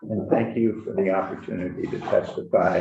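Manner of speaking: muffled behind a mask; talking through a mask; through a face mask. Real, not acted. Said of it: "excuse the mask".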